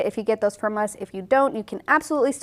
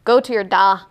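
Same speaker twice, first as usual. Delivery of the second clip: imitated Scottish accent, louder; 8 dB louder than usual. Mom handing baby over to Michael, imitated Scottish accent. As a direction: put on a Scots accent for the phrase. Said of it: "I would talk in a Scottish accent".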